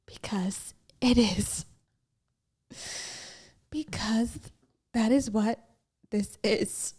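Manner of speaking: slow, hushed, sinister whisper; mock cult whisper. Answering a viewer's cult joke in a hushed cult whisper. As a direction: lean in and whisper like a cult leader. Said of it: "Why does this sound cult every second".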